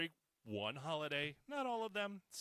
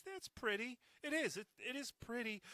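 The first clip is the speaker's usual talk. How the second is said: grudging; 10 semitones higher than usual. Real, not acted. Conceding snow is pretty.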